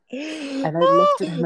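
high and slow through laughter; giggling recap; laughing. Real, not acted. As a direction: barely get it out for laughing. Still laughing after the story.

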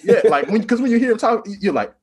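loud, high, amused explanation; laughing. Real, not acted. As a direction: talk through real laughter. Laughing along about the accent.

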